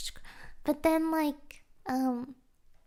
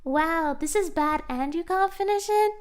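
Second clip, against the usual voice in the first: mock scornful inner critic; 3 semitones higher, 6 dB louder than usual. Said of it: "And it's like".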